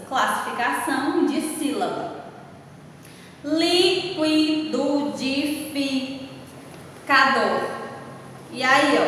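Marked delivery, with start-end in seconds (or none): 3.4-7.6 "Liquidificador" very slowly split li, qui, di, fi, ca, dor; long pauses between syllables of "Liquidificador". Shown as a demonstration. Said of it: "é tanta sílaba que não dão na mão". ("Liquidificador" bem devagar, sílaba por sílaba)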